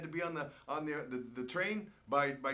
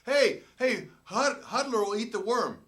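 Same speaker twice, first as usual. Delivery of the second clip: higher, louder sales pitch; teammate hawking a dare; 7 semitones higher, 8 dB louder than usual. Retold or imitated. Teammate offering the worm bet to Japanese players, loud. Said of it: "looking at my Japanese teammates going".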